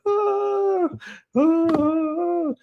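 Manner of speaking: piercing high wordless scream at the top of the lungs. Retold or imitated. Screaming to scare the attacker and save Jerome, piercing shriek. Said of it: "So I'm screaming".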